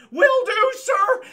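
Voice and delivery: high, loud, eager shout of obedience; eager soldier. Retold or imitated. The red shirt answers his boss with a loud eager shout. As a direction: snap to it like a keen recruit.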